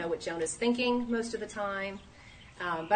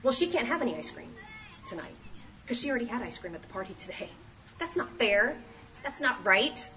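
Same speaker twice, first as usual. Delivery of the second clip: put-on whiny kid; 4 semitones higher, faster than usual. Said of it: "one of the other kids said".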